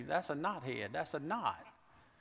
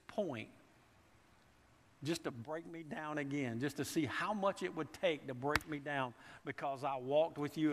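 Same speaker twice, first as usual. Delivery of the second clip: complaining to God. Retold or imitated. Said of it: "I have been to the place at times where I thought".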